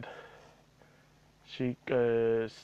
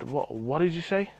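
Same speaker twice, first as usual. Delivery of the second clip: mildly heated question, pitched up with a rising end; retold angry challenge; 4 semitones higher than usual. Employee turns round to confront the mother, retold angry challenge. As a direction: act out a stammered, affronted challenge. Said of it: "I was so fucking angry".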